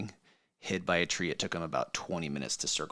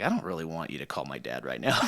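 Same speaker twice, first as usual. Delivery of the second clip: laughing plea; 4 semitones lower than usual. Retold or imitated. Retold plea to cops, laughing.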